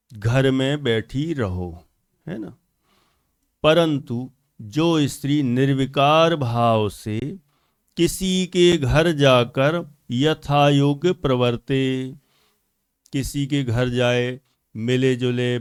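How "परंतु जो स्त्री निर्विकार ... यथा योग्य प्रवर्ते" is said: measured, drawn-out recitation; scripture reading. Real, not acted. Preacher reads the example to listeners, measured scripture reading. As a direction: read the text out deliberately, phrase by phrase.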